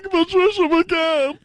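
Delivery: Patricia McCann impression. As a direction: toss the name in brightly like an ad. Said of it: "they're always like this".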